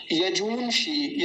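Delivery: यजूंषि slowly, with a drawn-out ऊ; slow यजूंषि, held ऊ; long ऊ. Shown as a demonstration. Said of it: "थोड़ा लंबा खींचेंगे".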